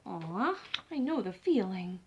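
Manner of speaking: soft sympathetic. Acted. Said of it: "papa sympathetic".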